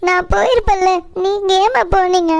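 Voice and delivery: tearful, sobbing between phrases; crying. Acted. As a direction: plead with mother through tears. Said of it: "சரி, நீ அழாதம்மா முதல்ல". (அழுதுகொண்டே)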